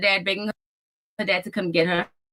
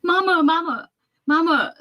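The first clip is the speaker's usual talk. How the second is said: put-on child calling; 9 semitones higher than usual.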